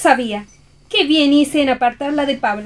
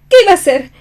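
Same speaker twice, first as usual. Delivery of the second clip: louder with a sob in it; tearful protest; 3 semitones higher, 6 dB louder, much faster than usual. Acted. Lobelia pleads tearfully with her rival. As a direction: plead through tears.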